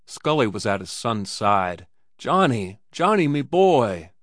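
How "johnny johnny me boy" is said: tender. Acted. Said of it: "melancholy tenderness".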